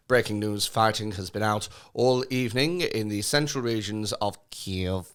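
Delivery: imitating a received pronunciation newsreader; posh British news voice, read it like a bulletin; mock RP newsreader. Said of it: "received pronunciation accents going".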